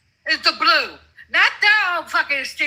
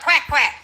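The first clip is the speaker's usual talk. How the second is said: mock quacking. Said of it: "You talk like a fucking duck".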